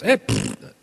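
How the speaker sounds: quick blown raspberry through tongue and lips. Retold or imitated. Imitating his cohost's raspberry sound effect on air. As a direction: spit out a little pfft raspberry. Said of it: "blowing through your, your, your tongue and lips like that".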